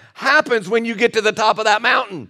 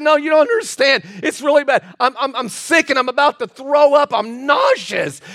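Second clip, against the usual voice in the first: higher-pitched mock pleading; imitated distressed lady; 4 semitones higher than usual. Sick lady insists to the preacher she is really ill, mock distress. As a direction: protest as the queasy lady, hammed up.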